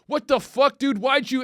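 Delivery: high, loud imitated yell of shock; mock outraged yell. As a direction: shout it as the guy who just got spat on. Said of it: "he's talking and he's like".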